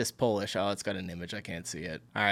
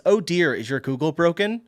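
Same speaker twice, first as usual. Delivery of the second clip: sugary, patronising "oh dear", a touch higher and louder; mock-sweet sarcasm; 6 semitones higher, 6 dB louder than usual. Shown as a demonstration. Answering someone's lazy question, mock-sweet teasing. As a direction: tease them like a kindly nanny scolding a child. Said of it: "my standard response".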